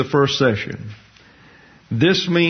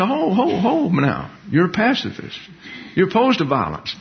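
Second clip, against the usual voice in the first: mock taunting; 6 semitones higher than usual.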